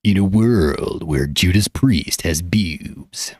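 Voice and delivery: mock trailer narrator, whispered and slow; husky slow trailer-announcer parody; movie trailer voice. Streamer doing the CinemaSins trailer voice, whispered and slow. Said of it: "they do the CinemaSins show on YouTube".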